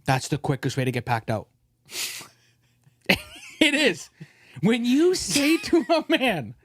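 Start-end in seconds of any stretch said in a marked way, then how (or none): 3.6-6.5 emphatic. Real, not acted. Ranting to his friend about moms and dads, higher and worked-up. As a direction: push it up, worked-up.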